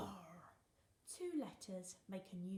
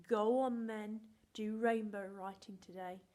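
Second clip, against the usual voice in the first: encouraging mum; 9 dB louder than usual. Retold or imitated. Mum urging teacher to try rainbow writing, loudly. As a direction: egg her on cheerfully. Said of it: "Sometimes she says to me".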